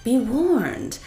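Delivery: lightly voiced warning genie. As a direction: warn them, a touch ominous. Genie warns the boys.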